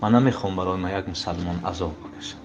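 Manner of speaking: lightly whispered dying words. Retold or imitated. Dying son tells his father, whispered. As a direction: breathe it out as a whisper.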